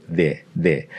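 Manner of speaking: "there" with a soft TH against the teeth; "there" with the tongue tip at the teeth. Shown as a demonstration. Teacher models the TH sound for the Spanish D. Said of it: "the T H in the word the".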